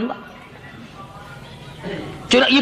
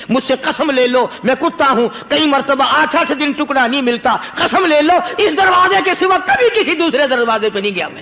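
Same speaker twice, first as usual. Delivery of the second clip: the dog swearing. Retold or imitated. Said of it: "کتے کو بھی زبان دی".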